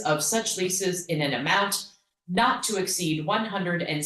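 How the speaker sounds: measured word-for-word reading aloud; formal motion reading. Real, not acted. Board member reads the motion verbatim to the board, formal reading. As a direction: read the motion carefully into the record.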